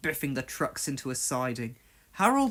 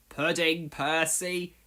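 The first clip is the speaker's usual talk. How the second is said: teasing; 3 dB quieter, slower than usual. Acted. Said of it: "teased James".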